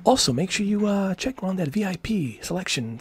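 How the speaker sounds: high announcer read; radio ad voice. Retold or imitated. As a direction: sell it like a radio spot. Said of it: "something like that".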